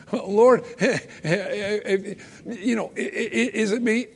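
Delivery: half-laughing, dropping quiet after Lord; softly giggled mock question; laughing mock plea. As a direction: tease the nervous disciple. Mock anxious disciple, laughing.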